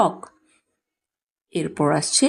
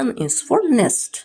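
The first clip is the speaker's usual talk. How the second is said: slow drill; 5 semitones higher, much slower than usual. Shown as a demonstration. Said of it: "slow teaching drill".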